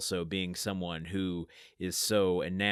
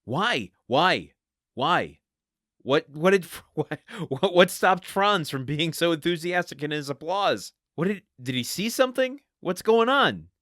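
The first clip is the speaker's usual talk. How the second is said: high, loud, hammed-up suspense; playfully overwrought bafflement, pitched high; mock frantic questioning; 7 semitones higher, 8 dB louder than usual. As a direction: pepper the page with loud, incredulous questions. Mock-excited guessing at the cliffhanger.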